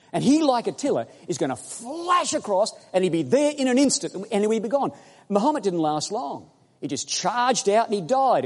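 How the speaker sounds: climbing sermon fervour; preaching at full force. Real, not acted. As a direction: rouse the congregation, voice up and ringing. Preacher rising again.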